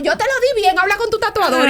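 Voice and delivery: a hint of a defensive pastor; pastor's brush-off. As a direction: toss the blame to the tattooist. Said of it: "Y yo".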